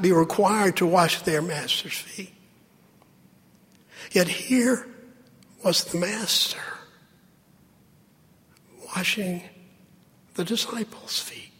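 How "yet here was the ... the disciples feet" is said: hushed, breathy wonder; whispered in awe; awed whisper. Acted. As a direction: let it drop to a whisper. Awed hush over master washing feet.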